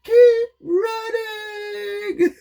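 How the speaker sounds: high, slow laughing run away; high laughing mock terror; mock panic laughing. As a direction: cry out in fake terror, giggling.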